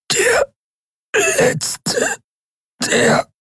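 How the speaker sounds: sehr hoch, Wort für Wort herausgewürgt; röchle wie im Würgegriff; ersticktes Röcheln. A narrator's reading. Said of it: "seine Stimme wurde zu einem unverständlichen Röcheln". (röchelnd, fast ohne Luft)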